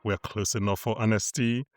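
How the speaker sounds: measured, slightly projected presenter read with stretched names; podcast host intro. Acted. Host introduces the episode and co-hosts, slow announcer-style intro. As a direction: present the show and guests like an announcer.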